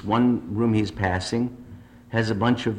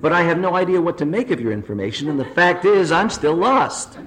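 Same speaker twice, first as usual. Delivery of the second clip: exasperated balloonist; 6 semitones higher than usual. Acted. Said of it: "says the lost man".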